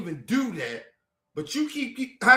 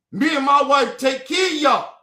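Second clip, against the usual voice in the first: raised, higher-pitched indignant voice; angry insistence; 5 semitones higher, 3 dB louder than usual. Real, not acted. Reminding family he and his wife housed them, loud and angry. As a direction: call out the favour at full heat.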